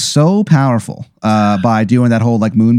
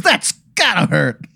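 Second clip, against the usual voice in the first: higher, softer mock-sympathetic wiseguy; Tony Italiano mobster; 6 semitones higher, 4 dB quieter than usual. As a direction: wince along like a fake-sympathetic mob boss. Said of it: "He goes".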